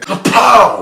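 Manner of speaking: loud, high burst on kapow; sudden kapow. Retold or imitated. Retelling the hornet sting, loud burst.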